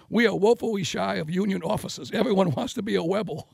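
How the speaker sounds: light lisp, Webble for Rebel. Retold or imitated. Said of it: "talk a little bit like this, you know, a little bit of a lisp".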